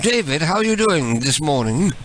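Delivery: lightly put-on British voice; mock British accent. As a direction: play a polite British caller. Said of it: "switch to my British voice".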